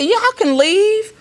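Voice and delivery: retold officer's line. Acts out officer's words.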